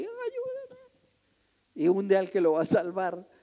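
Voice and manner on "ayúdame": high, soft desperate cry for help; panicked plea. Retold or imitated. Drowning person grabbing rescuer, panicked plea. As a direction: plead like a drowning man. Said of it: "agarra al que lo va a ayudar".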